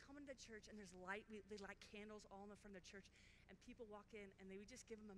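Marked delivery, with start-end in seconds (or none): 0.1-0.7 gentle invite. Retold or imitated. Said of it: "and just say".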